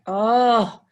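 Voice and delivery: groaning, reluctant complaint; a heavy "oh", then grudging; bored reader. Acted. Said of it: "if it starts with a boring sentence. They're like".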